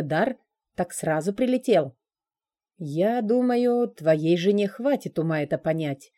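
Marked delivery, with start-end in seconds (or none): 2.8-6.1 slow, measured words; slowly. Acted. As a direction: draw it out carefully. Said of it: "медленно произнёс Кристофер".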